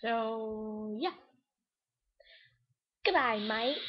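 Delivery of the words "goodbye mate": fail British accent. Shown as a demonstration. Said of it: "those are my fail accents".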